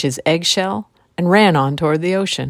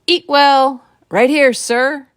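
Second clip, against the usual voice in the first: eager call; 9 semitones higher, 6 dB louder, slower than usual. Acted. Eatwell answers the witch's challenge.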